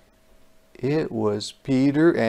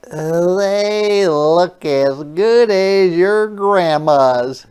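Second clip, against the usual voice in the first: put-on child's voice; 6 semitones higher, 6 dB louder, much slower than usual. Peter praising the cookies.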